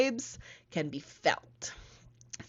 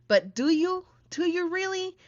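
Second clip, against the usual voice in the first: higher, teasing doubt on "do you really"; playful challenge; 10 semitones higher than usual. Real, not acted. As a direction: poke at them, half joking.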